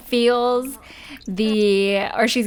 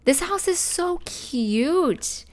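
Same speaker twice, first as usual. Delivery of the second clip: higher, gushing real delight; 10 semitones higher than usual. Real, not acted. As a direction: coo over a cute house. Admiring the new house.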